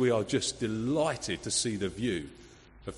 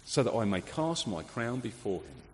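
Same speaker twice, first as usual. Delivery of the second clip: quiet, reflective repeat of the quote; softer echo; 4 semitones lower, 6 dB quieter than usual. Shown as a demonstration. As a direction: let it sink in softly. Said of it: "There was a ruler who knew she ruled under the king".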